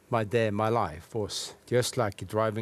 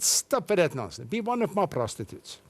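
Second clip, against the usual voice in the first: raised pitch, mildly pushy retelling; retold brash proposition; 5 semitones higher than usual. Pimp pressing the Christian girl, retold brash proposition. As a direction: act out a dismissive pimp's come-on, lightly.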